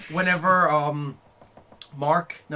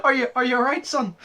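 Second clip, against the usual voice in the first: higher, laughing question; 9 semitones higher than usual. Real, not acted. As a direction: ask it while giggling. Laughing at friend.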